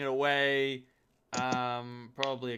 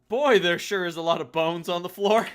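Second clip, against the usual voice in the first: wry; 5 semitones higher, 10 dB louder than usual. Acted. GM describing gross room.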